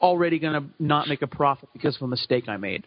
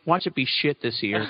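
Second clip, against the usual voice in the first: laughing half-shout, lower; 5 semitones lower than usual. Real, not acted. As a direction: blurt it out laughing. Joking pessimism.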